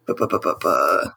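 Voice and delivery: low "bu-bu-bu" while searching memory; idle low burble while trying to remember; thinking noises. Real, not acted. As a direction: stall with low, repeated filler syllables. Stalling while recalling a name.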